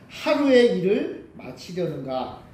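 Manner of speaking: slow, drawn-out taunting question; mocking. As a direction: stretch the question out in mild scorn. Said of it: "근데 그렇게 조롱하는 거예요".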